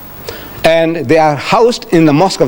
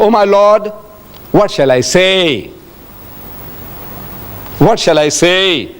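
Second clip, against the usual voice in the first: slow, drawn-out plea to God; communing with God; slower than usual. Retold or imitated. Prophet asking God for an answer, communing. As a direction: imitate a prophet's prayer, stretching the last word. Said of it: "trying to commune with God".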